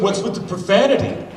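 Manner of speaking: high, loud prissy complaint; prissy neighbor. Retold or imitated. Uptight neighbor scolding the swearing, high and loud. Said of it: "He goes".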